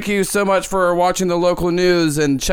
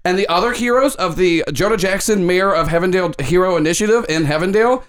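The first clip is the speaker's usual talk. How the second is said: lightly voiced sneering news anchor; a hint of an anchor editorializing; Ken De Niro reporter voice. Host attacking the Fun Bunch on air, mild sneer. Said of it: "And he goes".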